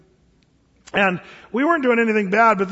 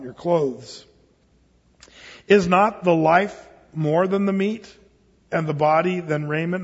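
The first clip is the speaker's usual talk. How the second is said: scripture reading. Acted. Reads scripture to congregation.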